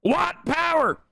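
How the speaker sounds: high, mocking Israeli accent. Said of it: "Just said, uh, with a, uh, Israeli accent".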